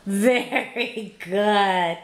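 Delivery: very slow, stretched-out praise; drawn-out praise. Real, not acted. Adult praising baby girl for saying apple, drawn-out praise.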